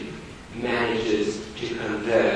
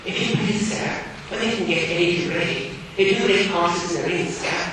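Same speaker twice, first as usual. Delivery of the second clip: timid schoolgirl; 6 semitones higher, faster than usual. Acted. Sissy voiced in reading.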